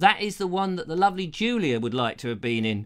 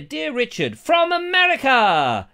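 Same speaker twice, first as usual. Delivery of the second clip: mock American reading; 6 semitones higher, 5 dB louder, slower than usual. Reading postcard in voice.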